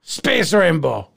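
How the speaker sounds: mock Irish sliding into Slavic; bad Irish accent that sounds Russian or Polish; botched Irish brogue. Leprechaun grumbling about the parade, Irish brogue gone Slavic. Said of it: "I'm actually from Slovakia".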